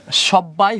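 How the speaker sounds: "সব্বাই" said shob-bai, b held double; double b sounded. Shown as a demonstration. Teacher repeating the rule for students, "সব্বাই" with a doubled b. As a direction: keep both b sounds in "সব্বাই". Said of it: "এখানে ব, ব আছে".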